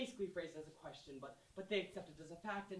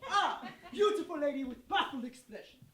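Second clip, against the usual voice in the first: gushing delight; 7 semitones higher, 11 dB louder than usual. Acted. Fan gushes along with the show.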